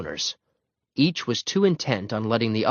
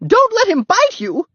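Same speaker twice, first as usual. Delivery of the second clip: very high, alarmed shout; shouted warning; 8 dB louder than usual. A narrator's reading. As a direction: cry out to warn him. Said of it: "shouted the woman".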